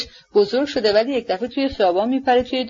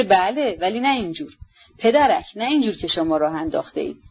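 mild scornful retort with a sneer; a touch of contemptuous anger; bitter sneer; 3 semitones lower than usual. Acted. Lady sneering back at the nephew, mildly angry. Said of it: "با زهرخند و خشمی".

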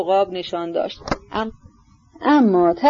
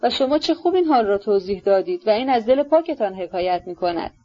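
eager, delighted agreement; with great enthusiasm; 2 semitones higher than usual. Acted. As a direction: praise him with rapture. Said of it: "با وجد بسیار گفت".

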